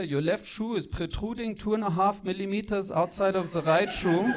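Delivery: lightly voiced pedantic German mother; mock-formal scolding with a German accent; strict German mom. Mom inspects her son's shoes and warns him, strict. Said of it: "like, very, very strict".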